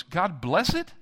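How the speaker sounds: tentative question, pitch lifting; unsure blessing turned into a question; questioning prayer. Retold or imitated. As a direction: pray it as if asking. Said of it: "more of a question than a prayer".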